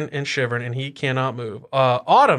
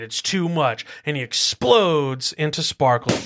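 storytelling narration; 3 semitones higher than usual. A narrator's reading. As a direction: build the moment for the kids. GM narrates the kill.

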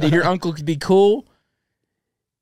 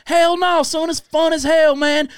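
much higher, hammed-up excited redneck dad; 8 semitones higher than usual. Redneck dad gushing to his son about the show, high and excited. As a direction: play the rowdy father raving, pitched way up. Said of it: "He's like".

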